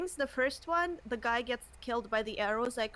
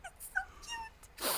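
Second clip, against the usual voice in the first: slow, high, soft coo; 10 dB quieter, much slower than usual. Real, not acted. Cooing at cute creature.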